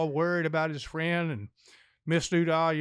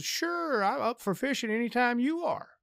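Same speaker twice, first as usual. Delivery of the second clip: Doodah's voice; 5 semitones higher than usual. Retold or imitated.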